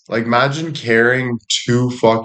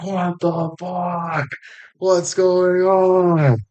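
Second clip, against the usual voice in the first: much higher, slow, drawn-out bewildered cry; freaked-out disbelief; 9 semitones higher, much slower than usual. Retold or imitated. Imagining waking up in William's body, higher and slowed in panic. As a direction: stretch it out like the world is shaking under you. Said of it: "And you're like".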